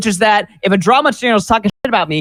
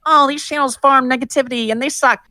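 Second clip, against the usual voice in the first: mocking YouTuber voice; 6 semitones higher than usual. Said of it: "They'll be like".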